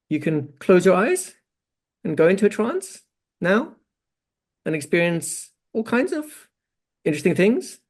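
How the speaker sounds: sleepy suggestions that sound unsure of themselves; botched hypnotic induction with an upward lilt; insecure rising induction. Shown as a demonstration. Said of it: "it was so high pitch".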